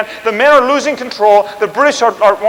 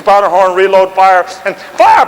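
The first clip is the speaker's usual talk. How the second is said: drill command; 2 semitones lower than usual. Retold or imitated. Demonstrating musket drill commands.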